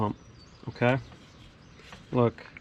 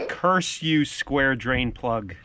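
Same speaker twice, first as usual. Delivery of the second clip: mock curse; 3 dB louder, much slower than usual. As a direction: shake a fist at the plug, slowly. Cursing the stuck drain plug.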